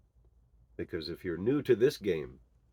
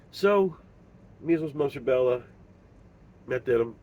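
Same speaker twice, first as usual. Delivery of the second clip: higher and louder, each word hammered out; loud emphatic declaration; 6 semitones higher, 9 dB louder than usual. Real, not acted. Father blaming the shot for his son's illness, loud and emphatic. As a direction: spit out the list like an accusation.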